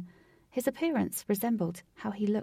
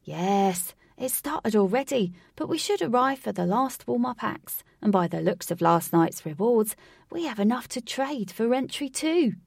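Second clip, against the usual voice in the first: excited; 3 semitones higher, 5 dB louder than usual. Acted. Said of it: "attracted to his excitement".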